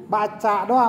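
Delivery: the word "doa" lifted as a contrast; teacher contrasting "baca doa" with "berdoa"; stress on doa. Shown as a demonstration. Teacher to pupils, contrasting reading and praying, stressed. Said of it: "Ada baca doa, ada berdoa".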